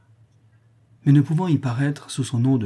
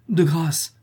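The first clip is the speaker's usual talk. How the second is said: imploring; 7 semitones higher than usual. A narrator's reading. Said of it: "implora Geronimo".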